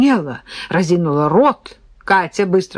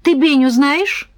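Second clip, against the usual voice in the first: put-on little girl voice; 8 semitones higher than usual. Девочка дразнит деда.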